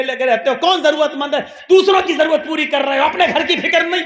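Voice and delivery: loud, nagging tirade; scolding wife. Retold or imitated. Wife scolding the caliph for neglecting the family, loud nagging. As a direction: scold him for neglecting home.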